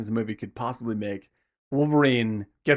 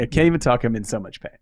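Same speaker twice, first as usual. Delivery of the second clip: louder at the start, then dropping back; a bit more forceful cry of pain; pained outburst; 4 dB louder, faster than usual. Retold or imitated.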